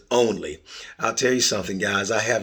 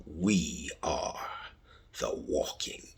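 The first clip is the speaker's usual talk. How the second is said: dramatic whisper; 6 semitones lower, 10 dB quieter than usual. Real, not acted. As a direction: breathe out the show name like a secret. Whispered podcast title.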